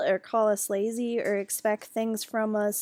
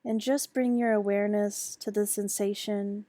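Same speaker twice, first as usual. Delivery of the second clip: calm, even meditation guide with long pauses; unhurried mindfulness instruction, pausing often; guided meditation. Acted. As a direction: lead listeners gently into the exercise, leaving space between phrases. Leads a guided meditation on self-liking.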